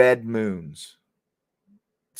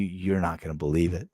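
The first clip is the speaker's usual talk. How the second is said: whisper; 4 semitones lower, 5 dB quieter than usual. Retold or imitated. Pimp confiding in a hush.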